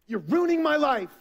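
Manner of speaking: put-on sulky teenager throwing it back at a parent; rebellious teenager. Believers treating God like a rebellious teenager, light mock teen whine. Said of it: "we treat God like rebellious teenagers".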